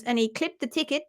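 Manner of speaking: lightly imitated friend's turn of phrase; mimicking Jenny. Teasing Jenny about her phrase, lightly mimicking her voice. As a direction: quote it with a hint of her voice. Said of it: "I've mimicked your voice there".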